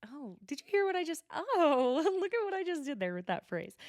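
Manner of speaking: high, self-pleased mock Mary; Mary impression. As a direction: show off your own clever phrase. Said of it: "Something about Mary is just like".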